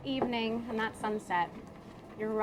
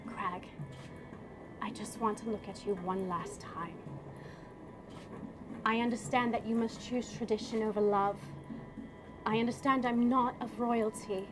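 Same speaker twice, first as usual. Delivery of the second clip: tender farewell. Acted. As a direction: lovingly say goodbye forever. Character's tender farewell speech.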